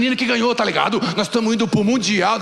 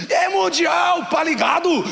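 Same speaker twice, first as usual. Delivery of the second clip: excited shout; 9 semitones higher, slower than usual. Retold or imitated. Brother shouting at embassy.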